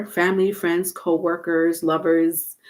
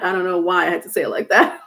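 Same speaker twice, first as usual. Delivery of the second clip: laughing; much faster than usual. Real, not acted. Laughing at own odd phrasing.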